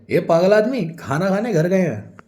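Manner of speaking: loud, high exasperated correction. Acted. Vijay corrects the assistant's mistake, exasperated. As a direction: set him straight, loudly and impatiently.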